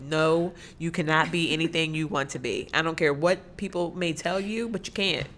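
loud, deliberate NO, then firm words; emphatic pronouncement. Shown as a demonstration. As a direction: lean into the mic to make the point. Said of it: "I'm gonna say that real, let me get close to the mic".

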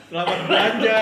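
mock cashier greeting.

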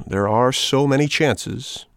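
slow, patient repetition; patient and calm. Acted. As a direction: repeat it gently, keeping your temper. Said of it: "repeated Geppetto without losing his temper".

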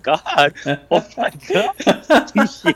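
shocked. Retold or imitated. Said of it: "And I'm like".

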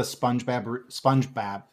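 SpongeBob said in a Wisconsin accent, flat vowels. Real, not acted. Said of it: "my Wisconsin accent came out there".

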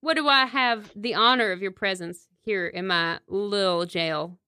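lightly put-on Southern sheriff; Southern accent. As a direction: standard Southern greeting, lightly played. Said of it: "give him a standard Southern accent".

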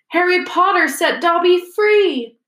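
high, loud, drawn-out elf cry; shrill elf. A narrator's reading. Elf freed by Harry, gazing up at him, shrill. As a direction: proclaim it shrilly and slowly. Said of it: "said the elf shrilly".

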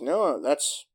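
the kid pleading with his mother, a light mock child voice; kid insisting. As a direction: insist like a stubborn little boy. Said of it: "And he goes".

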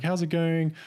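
mock delighted server; super ecstatic. Dairy Queen lady asking customers over microphone, imitated super ecstatic. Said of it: "like, super ecstatic".

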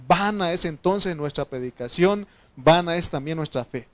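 forceful preacher's Bible reading; emphatic, building proclamation of the verse; scripture declamation. Acted. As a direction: read it out with mounting force.

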